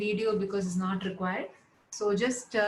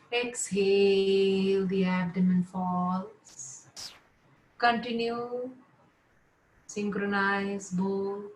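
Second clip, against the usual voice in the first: measured yoga nidra instructions with long pauses; guided relaxation. Real, not acted. Yoga teacher settling students lying down, guided relaxation. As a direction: guide them into rest, phrase by phrase.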